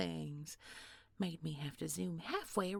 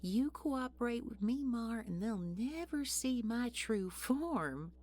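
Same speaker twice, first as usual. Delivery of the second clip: mocking sing-song; 6 semitones higher than usual. Villain toying with hero.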